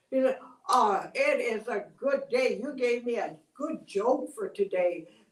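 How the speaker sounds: a proud crow jeering at the lonely cactus; scornful crow. Acted. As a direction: laugh the cactus off with loud scorn.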